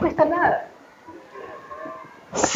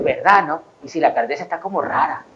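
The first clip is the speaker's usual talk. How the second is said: hushed gossip; 9 semitones lower, 7 dB quieter than usual. Retold or imitated. Mimicking gossip agreement.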